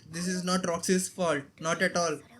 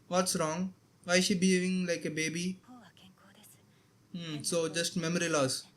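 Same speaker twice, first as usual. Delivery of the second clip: whisper; 3 semitones lower, 5 dB quieter than usual. Real, not acted. Muttering to self watching.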